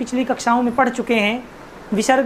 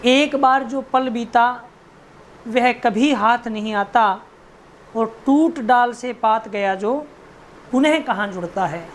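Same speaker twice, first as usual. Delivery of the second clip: slow, measured reading of poem lines; poem recitation. Acted. Teacher reading the poem lines slowly to the class. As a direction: recite each line slowly.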